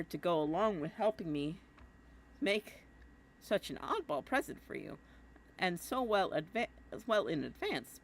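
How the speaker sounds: a hint of a boyish brag; Jake voice. Jake's letter read to John, lightly voiced Jake. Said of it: "I keep doing my Jake voice".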